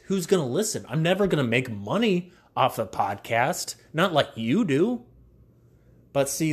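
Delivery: loud, upbeat sponsor pitch; ad read. Acted. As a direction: sell it like a radio spot. Host reads podcast sponsor ad.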